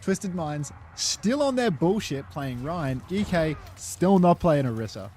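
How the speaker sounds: esports play-by-play. Acted. Casts the Overwatch match.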